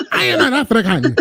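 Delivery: laughing lead-in, then high mock African accent. Host replaying the woman's line, mock African accent. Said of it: "She had an accent".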